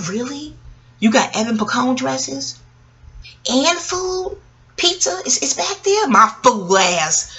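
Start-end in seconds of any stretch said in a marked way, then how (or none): 0.1-6.1 high-pitched, softer mock amazement; wide-eyed disbelief. Retelling her fooled self spotting free food and dresses, wide-eyed disbelief. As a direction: play gullible surprise, voice climbing high.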